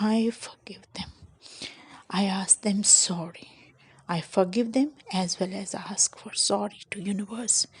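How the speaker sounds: slow, half-whispered forgiveness prayer; hushed, unhurried prayer of forgiveness; gentle prayer. Shown as a demonstration. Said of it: "So you can say sorry".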